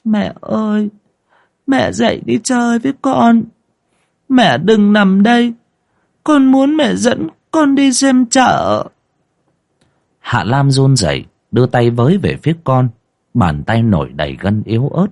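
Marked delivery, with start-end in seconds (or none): 0.0-8.9 put-on a small boy begging his dying mother to get up; whimpering child. A narrator's reading. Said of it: "khóc thút thít". (giọng trẻ con thút thít, chậm và cao)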